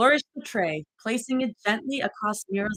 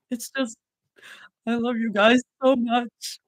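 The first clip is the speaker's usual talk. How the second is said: tearful; 3 semitones higher than usual. Acted. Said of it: "Mira stammered between sobs".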